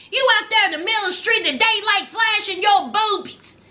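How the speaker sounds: fast, insistent scold; rapid scolding. Acted. Host scolding Ty to go home, fast. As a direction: rattle off each order quickly.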